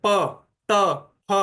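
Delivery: प ट फ pushed out with a burst of air; forceful stops. Shown as a demonstration. Teacher showing air thrown out on stops. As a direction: spit out each consonant. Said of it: "ये ध्वनियां जैसे कि बाहर जोर से फेंकी जा रही है".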